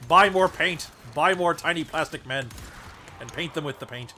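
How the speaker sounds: loud hammy evil command; mock villain. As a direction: bark orders like a greedy overlord. Mock-villain order to buy models.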